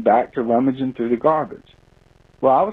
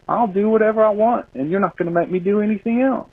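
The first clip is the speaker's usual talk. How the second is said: defiant bear; 8 semitones higher than usual. Retold or imitated. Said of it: "it was like".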